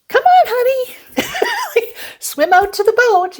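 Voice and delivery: high, sing-out call to husband; high-pitched coaxing holler. Retold or imitated. Calling to husband from the boat.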